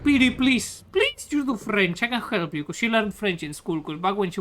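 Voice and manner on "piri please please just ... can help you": imitating a pleading mother, drawn out; higher, slow coaxing on the pleas; mock-pleading, pressuring parent. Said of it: "My mother kept pressuring me".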